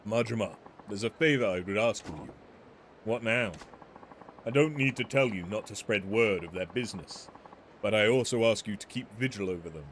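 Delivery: lightly voiced courteous weapons smith; a measured, polite merchant pitching his trade; refined shopkeeper. Polite weapons smith explaining his business to Majima, lightly voiced.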